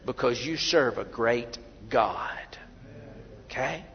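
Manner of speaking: slow, breathy whisper to the congregation; hushed whisper. Real, not acted. Preacher whispering to the congregation, slow and hushed. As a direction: lean in and whisper it slowly.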